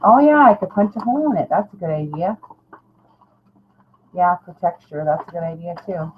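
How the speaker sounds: ordinary talk, nothing marked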